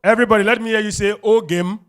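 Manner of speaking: loud fast rallying cry; crowd call-out. Real, not acted. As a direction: hype the room to shout it back.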